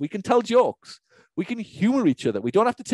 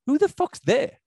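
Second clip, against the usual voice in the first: higher, incredulous mock retort; mock outrage; 8 semitones higher, slower than usual. Coach scoffing at whoever makes the rules, mock outraged. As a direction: fire back at the faceless rule-makers. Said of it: "I'm like".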